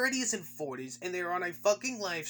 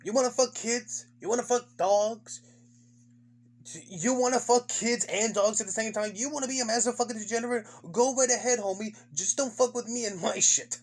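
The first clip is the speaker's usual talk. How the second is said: lightly acted libertarian, pitched higher; mock libertarian; 4 semitones higher, 3 dB louder than usual. Streamer caricatures libertarianism in a nutshell, lightly acted libertarian voice. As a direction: put on a live-and-let-live libertarian, punching the questions. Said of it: "That's virtually libertarianism in a nutshell".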